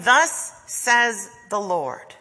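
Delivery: slow, emphatic proclamation; prophetic proclamation. Acted. Prophets compelled to speak to their leaders, proclaiming. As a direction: proclaim it slowly and firmly, word by word. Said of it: "and proclaim".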